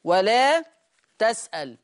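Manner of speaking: تسأل said tas'al, fatha on ta; a after ta, vowelless lam in تسأل; Warsh reading. Shown as a demonstration. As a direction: say ولا تسأل as wa-laa tas'al. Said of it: "يفتح التاء ويسكن".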